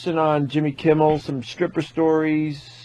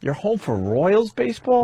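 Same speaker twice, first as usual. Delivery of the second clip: slow, higher mock announcer; radio announcer voice; 6 semitones higher than usual. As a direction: imitate a big radio voice. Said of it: "Big radio voice".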